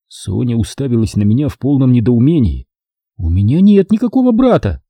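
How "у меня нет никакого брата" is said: high woman's voice, indignant; a high, bewildered woman denying it; Sonya, baffled. A narrator's reading. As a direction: protest it, pitched high.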